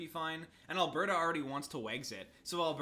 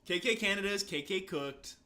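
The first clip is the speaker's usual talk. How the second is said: mock stutter; 4 semitones higher, 5 dB louder than usual. Stuttering joke.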